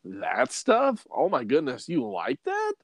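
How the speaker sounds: put-on future kid voice. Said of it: "kids and grandkids will be like".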